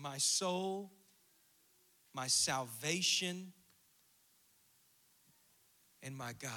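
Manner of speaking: tender psalm reading. Acted. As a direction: soothe the soul gently.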